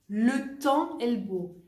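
slow and even, no liaison; slow model phrase. Shown as a demonstration. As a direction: spell it out slowly for learners. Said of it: "El tiempo está lindo".

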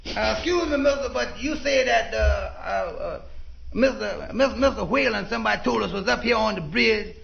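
hesitant inquiry. Acted. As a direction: stumble over your words as you ask a stranger. Hesitantly asks a stranger for directions.

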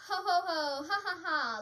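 Santa's spoken ho-ho laugh. A narrator's reading. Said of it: "laughed Santa".

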